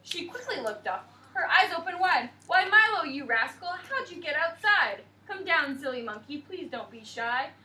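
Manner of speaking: put-on sing-song picture book narration for little kids; storybook reading. A narrator's reading. Teacher reading rhyming story to class, bright storybook voice.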